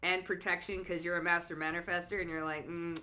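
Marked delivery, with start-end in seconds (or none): 2.7-3.0 nonchalant. Acted. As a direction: shrug it off quietly, trailing away.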